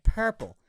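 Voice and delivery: "Purple" with a purring r; rolled r purple. Retold or imitated. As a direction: trill the r in "Purple". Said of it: "I was like".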